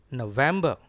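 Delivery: November as no-VEM-buh, R dropped; careful model November, strong middle syllable; stresses on NO, VEM. Shown as a demonstration. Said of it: "Here are two stressed syllables".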